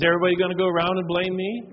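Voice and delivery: a dad losing his cool in a family meeting, shouting; indignant outburst. Retold or imitated. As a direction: fire back at the kids, offended. Dad angrily confronts his kids.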